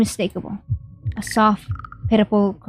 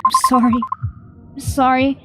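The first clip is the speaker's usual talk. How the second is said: pleading apology; 5 semitones higher than usual. Acted. Character begs forgiveness tearfully.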